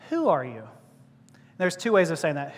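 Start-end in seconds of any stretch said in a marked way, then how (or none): 0.1-0.6 lower, gentle question with WHO up front; nicest way. Shown as a demonstration. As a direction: ask WHO nicely, without challenge. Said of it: "the nicest way of saying it".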